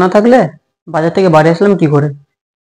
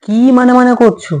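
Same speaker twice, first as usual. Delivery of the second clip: higher-pitched, annoyed question; impatient; 5 semitones higher than usual. Acted. Husband to wife who keeps hesitating, impatient. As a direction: cut into the hesitation, pitch raised.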